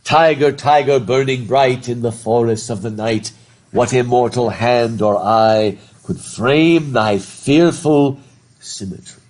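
teacher reading Blake aloud; poem reading. Shown as a demonstration. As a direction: intone it like a spell. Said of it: "So it begins".

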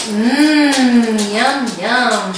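long mmm, then yum-yum; drawn-out hum into yum, yum; yummy eating sounds. Shown as a demonstration. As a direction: savour it for a toddler to copy. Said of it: "Can you say".

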